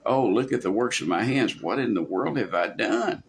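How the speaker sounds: dawning, understated self-reproach; remorseful realization. Shown as a demonstration. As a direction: look at your own work with dismay. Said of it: "say it like this".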